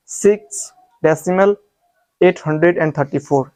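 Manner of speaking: एट हंड्रेड एंड थर्टी फ़ोर as one number; wrong reading demo. Shown as a demonstration. Teacher warning students off, demonstrated wrong reading. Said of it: "आप इस तरीके से मत पढ़ना".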